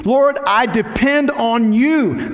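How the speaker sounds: high, slow, pleading prayer; fervent prayer voice. Acted. Preacher voicing David's prayer, high slow plea. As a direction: cry out to the Lord slowly.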